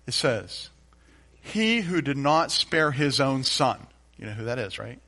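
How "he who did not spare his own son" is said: slow careful recitation. Shown as a demonstration. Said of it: "Let me try it again".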